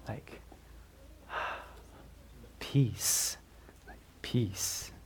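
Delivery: sighed, breathy whisper of a calm word; dreamy whispered peace. Shown as a demonstration. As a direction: breathe the word out softly like a daydream. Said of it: "what do you tend to think of?".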